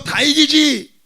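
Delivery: high, loud, emphatic assurance; hammed-up confident boast; acted boasting dad. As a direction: proclaim it like an unbeatable father. Father boasting to his son.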